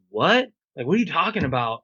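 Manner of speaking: high startled what, then a fast baffled question; shocked what. Retold or imitated. Hungover friend hears about the nipple tattoo, startled and baffled. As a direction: play a guy hearing his drunk promise for the first time.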